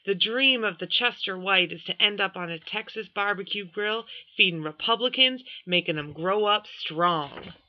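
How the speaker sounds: Western drawl. Acted. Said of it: "a drawl more Western than Westerners".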